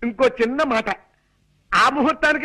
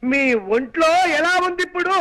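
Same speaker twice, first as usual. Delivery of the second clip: clear, raised voice; mild shout. Acted. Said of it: "అంత గట్టిగా అరవకు నాయనా".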